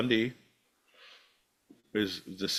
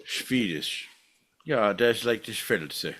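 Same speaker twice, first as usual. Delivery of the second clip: mock Swedish; 2 semitones lower than usual. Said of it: "It's Swedish Santa".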